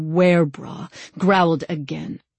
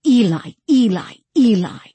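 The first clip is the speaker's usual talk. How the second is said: higher, louder call for Eli; insistent repeated call, raised voice; calling kit call; 6 semitones higher, 5 dB louder than usual. A narrator's reading. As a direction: call out the name like a cat calling. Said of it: "whistled kit call".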